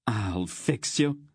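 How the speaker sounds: a contained, spiteful cry; mild scream. Acted. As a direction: threaten in a restrained scream. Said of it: "he screamed".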